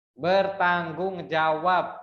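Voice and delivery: "bertanggung jawab" stretched out slowly, syllables apart. Shown as a demonstration. Teacher quizzing class, slow syllable-by-syllable reading. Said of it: "ada berapa suku kata tuh".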